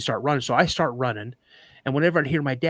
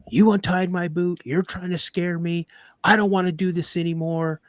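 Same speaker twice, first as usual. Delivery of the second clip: imitating a rattled kid, pitched up; retold upset accusation; 5 semitones higher than usual. Scared boy in deer stand accuses dad, upset protest.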